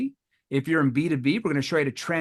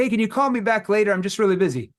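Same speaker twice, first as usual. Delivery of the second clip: higher, louder hurried prospect; busy prospect brush-off; 5 semitones higher, 3 dB louder than usual. Retold or imitated. Salesman imitating a prospect asking for a callback, hurried. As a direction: brush him off, sound busy.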